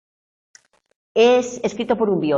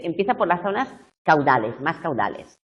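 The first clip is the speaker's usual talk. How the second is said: ordinary talk, nothing marked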